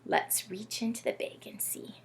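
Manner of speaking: hushed secret whisper. Real, not acted. Host revealing the clue bag to children, whispering.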